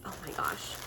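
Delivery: breathless whispered oh my gosh; awed whisper. Real, not acted. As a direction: whisper it like the cuteness took your breath. Gushing over cute baby items.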